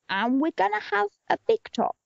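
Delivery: high-pitched pitch climbing to a squeal; hammed-up film pitch. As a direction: build up to the big reveal, leaping very high on the last words. Acting absurd film pitch to financiers.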